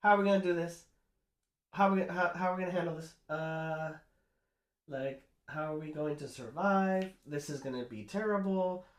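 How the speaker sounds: high, loud panicked rush of questions; freaking out. Retold or imitated. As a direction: act out the werewolves panicking over the leg. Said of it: "they start freaking out".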